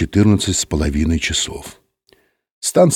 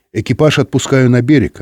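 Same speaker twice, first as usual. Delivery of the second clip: pitched-up captain's announcement; announcing; 5 semitones higher, 3 dB louder than usual. A narrator's reading. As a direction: announce it to the crew. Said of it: "объявил Быков". (объявляя экипажу)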